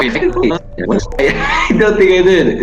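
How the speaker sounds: high squeaky laughing disbelief; giggling through the words. Real, not acted. Laughing at the monster.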